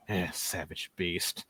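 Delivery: low, slow, quiet contempt; disdainful knight. Acted. Knight looks at the orc, low disdainful grumble. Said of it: "looks at the orc and says".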